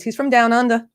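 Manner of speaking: attempted Australian slipping into Southern; a botched Down Under accent gone Southern; accidental Southern accent. Host introducing Mark from Down Under, accidental Southern accent. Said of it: "I think I just did a Southern accent".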